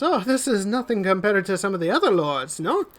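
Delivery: lady showing guests around; lady of the house. Acted. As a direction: play down her wealth with mock humility. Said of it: "and she says".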